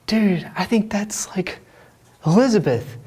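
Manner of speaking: a twin's hushed mock whisper. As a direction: lean in and whisper the name. Twin whispering retold.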